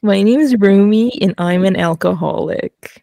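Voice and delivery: imitating Romy's accent, a little tearful; mock-sobbing confession in Romy's accent; a hint of a teary Romy accent. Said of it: "I can do two accents".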